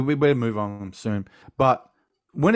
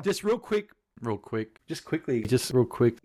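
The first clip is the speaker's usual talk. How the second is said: vary each take of the line; catchphrase variations; 5 dB quieter than usual. Shown as a demonstration. Listing the editor's clips, mock catchphrase takes. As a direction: run through the catchphrase several ways. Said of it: "four different variations of you saying it".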